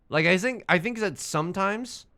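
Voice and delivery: put-on a quick, casual German accent on "I think that sometimes"; a touch of German accent. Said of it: "random German accent".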